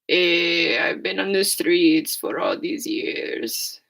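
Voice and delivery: raspy, slow street hustler voice; chain smoker voice. Acted. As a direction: croak it out like a lifelong smoker. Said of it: "That's how I sound right now".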